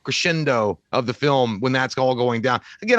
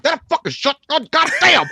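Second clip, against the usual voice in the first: angry brute impression; 12 semitones higher than usual. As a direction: ham up a pissed-off killer. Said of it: "He was like".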